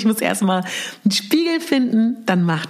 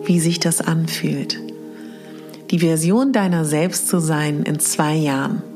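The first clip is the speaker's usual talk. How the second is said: sleep story narrator. Acted. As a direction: breathe it out gently, long pauses. Leads mirror meditation exercise.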